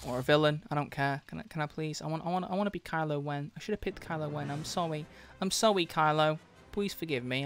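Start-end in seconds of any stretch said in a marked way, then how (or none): 1.3-7.4 softer, small begging voice; mock pleading. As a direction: beg meekly like a scolded kid. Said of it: "I don't know why I'm talking like this".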